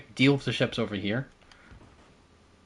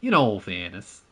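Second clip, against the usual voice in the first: imitated Welsh accent; 3 semitones lower than usual. Shown as a demonstration. Gamer retrying his friend's catchphrase, low Welsh accent. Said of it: "I'm struggling with his accent".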